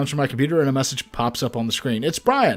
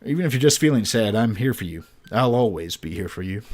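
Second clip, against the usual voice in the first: tender; 6 semitones lower than usual. Acted. Dad comforting daughter.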